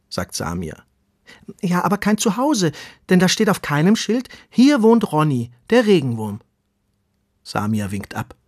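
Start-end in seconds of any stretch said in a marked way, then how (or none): 1.6-6.4 put-on higher, pleading young worm voice; eager little earthworm. Earthworm Ronny tells the tortoise he has no place. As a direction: plead like a small worm left out. Ronny wants a name sign.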